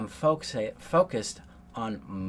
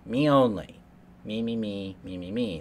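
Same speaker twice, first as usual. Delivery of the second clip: mock narcissist; 4 dB louder than usual. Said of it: "Narcissists choose themselves only".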